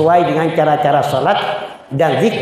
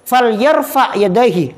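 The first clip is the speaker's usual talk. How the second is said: reciting hadith; 4 semitones higher than usual. Shown as a demonstration. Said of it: "Kata Nabi".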